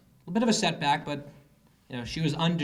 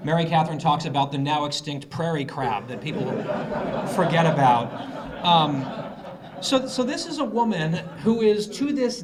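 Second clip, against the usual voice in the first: talking through laughter, louder; laughing; 6 dB louder than usual. Real, not acted. Host laughing at cohost's prairie crab joke. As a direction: crack up while speaking.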